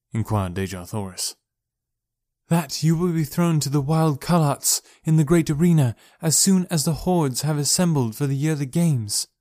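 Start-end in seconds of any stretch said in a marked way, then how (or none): 2.5-9.3 lightly voiced warrior woman, worried and urgent; Sola voice. Sola telling the princess their fate, worried. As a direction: deliver grim news with urgency.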